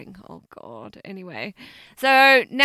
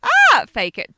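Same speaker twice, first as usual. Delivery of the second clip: mock moan; 11 semitones higher, 9 dB louder than usual. Mimics faking pleasure, clarifying meaning.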